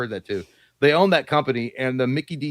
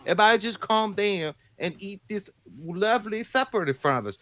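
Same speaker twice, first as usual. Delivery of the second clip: higher put-on voice, scolding at dinner; hammed-up parent calming the table; mock parent voice; 5 semitones higher than usual. Mock parent telling everyone to eat supper.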